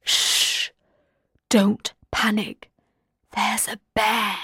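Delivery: hushed whisper, as if not to be overheard; very quiet warning. A narrator's reading. Donna warning friends about a nearby bear, very quietly. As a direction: whisper a calm, urgent warning. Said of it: "Donna said very quietly".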